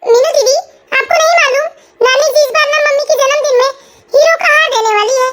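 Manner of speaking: lightly voiced child telling a cousin some news; a hint of a little kid's voice; छोटा बच्चा. (हल्की-सी बच्चे जैसी आवाज़)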